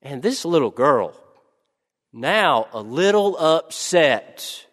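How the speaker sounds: ordinary talk, nothing marked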